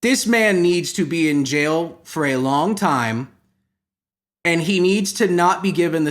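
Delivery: earnest statement, taking its time; serious. Real, not acted. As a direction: deliver it soberly and deliberately. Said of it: "next sentence is the serious one".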